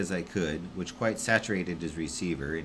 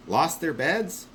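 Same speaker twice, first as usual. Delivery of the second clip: high, slow bewildered question; drawn-out confusion; puzzled mishearing; 10 semitones higher, 4 dB louder, slower than usual. Acted. Burley asking Constant, high and bewildered.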